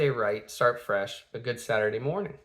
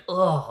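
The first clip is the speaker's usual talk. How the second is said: short disgusted "ugh"; mild retold groan of disgust; grossed-out groan; 3 semitones higher than usual. Man covered in hair, mild grossed-out groan. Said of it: "it was gross".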